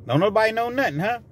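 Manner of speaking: menacing gangster boss. Retold or imitated. Villain interrogating the table.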